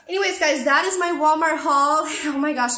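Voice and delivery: winded from running around; breathless and panting, talking on; out of breath. Real, not acted. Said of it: "out of breath from running around".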